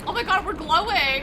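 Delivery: excited gasp. Real, not acted. Streamer reacts to game ending.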